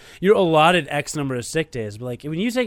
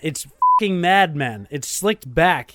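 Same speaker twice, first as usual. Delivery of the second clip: annoyed; 4 dB louder, slower than usual. Real, not acted. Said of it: "I was getting animated because you were pissing me off".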